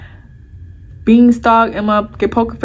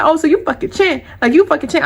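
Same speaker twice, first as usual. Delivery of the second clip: mildly angry retold accusation, pitched up; retold mad texting; 5 semitones higher than usual. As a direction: accuse him, keeping the volume conversational. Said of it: "I'm mad as fuck".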